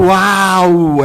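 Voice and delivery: drawn-out yelp of pain, retold; comic, half-hearted scream; mock yell. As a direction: imitate a cry from a burn. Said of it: "Eu dei um grito".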